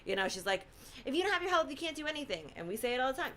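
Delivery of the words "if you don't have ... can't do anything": lightly imitated mom, pitched higher; higher-pitched motherly admonishment; hint of a mother repeating her rule; mom's saying. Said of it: "my mom always used to tell me that".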